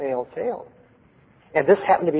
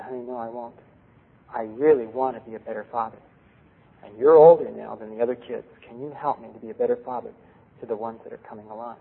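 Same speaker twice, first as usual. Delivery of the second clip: gentle reassurance; 4 semitones lower, 4 dB quieter than usual. Retold or imitated. Father reassures hesitant daughter.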